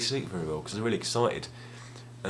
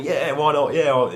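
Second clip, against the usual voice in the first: eager yes; 5 semitones higher, 7 dB louder than usual. Retold or imitated. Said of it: "'cause I was so excited".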